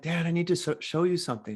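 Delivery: put-on calm, casual kid's request; super chill. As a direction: ask calmly, no alarm. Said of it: "Super chill, right?".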